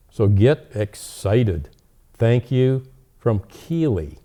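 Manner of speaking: put-on letter read out in a lightly childlike lilt; reading a letter aloud. Reading a child's letter aloud to Santa.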